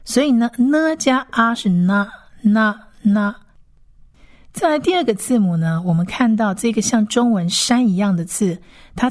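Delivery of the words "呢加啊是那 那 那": "呢加啊是那" blended from n and short a; short, separate na for "那"; sounding out. Shown as a demonstration. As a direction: build "那" from 呢 plus 啊, then repeat it. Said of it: "母音发短啊".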